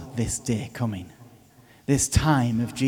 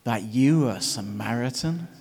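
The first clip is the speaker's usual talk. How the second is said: pompous accusers; 3 semitones higher, 6 dB louder than usual. Retold or imitated. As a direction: ham up a smug accuser. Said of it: "they frame it".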